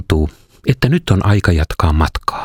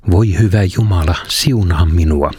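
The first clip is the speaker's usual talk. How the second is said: resigned sigh; 3 semitones lower than usual. Acted. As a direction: give in with a weary sigh. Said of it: "huokaan alistuneena". (alistunut huokaus)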